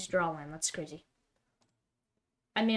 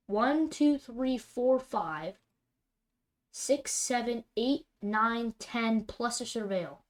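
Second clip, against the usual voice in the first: incredulous counting; 2 semitones higher, 4 dB louder, much slower than usual. Real, not acted. Counting lands in disbelief.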